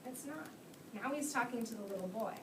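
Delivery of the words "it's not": put-on reading to children. A narrator's reading. Teacher reads The Lorax aloud.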